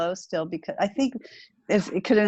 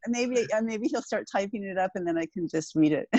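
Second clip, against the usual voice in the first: laughing; 4 semitones higher than usual. Retold or imitated. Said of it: "and I said".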